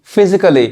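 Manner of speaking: फिजिकली with a reduced vowel, "fizi-klee"; फिजिकली as "fi-zi-kuh-li"; silent A. Shown as a demonstration. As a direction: say फिजिकली without a full "kal". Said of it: "ए silent होता है".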